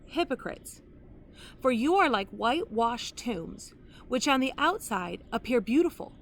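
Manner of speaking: solemn, measured Bible reading with long pauses; scripture reading. Acted. Preacher reading Jesus' woes to the congregation, solemn. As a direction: read the woes as a grave warning.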